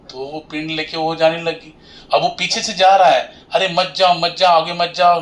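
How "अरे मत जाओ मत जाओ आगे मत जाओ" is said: mild urgent warning. Acted. Husband following his wife to the river, mock urgent warning. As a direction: call after someone walking ahead, pitch lifted.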